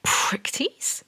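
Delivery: unvoiced, incredulous whisper rising in pitch; shocked whisper. Anna repeating her boss's insult, shocked whisper. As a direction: gasp the words out in disbelief.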